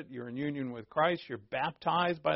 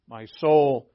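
usual speaking voice

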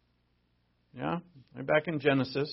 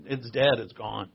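normal talking voice

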